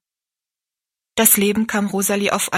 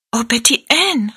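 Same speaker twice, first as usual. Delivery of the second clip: louder, higher cry of dismay; utterly dismayed; 5 semitones higher, 5 dB louder than usual. A narrator's reading. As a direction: exclaim the name, aghast. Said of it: "rief Rosalie ganz bestürzt aus".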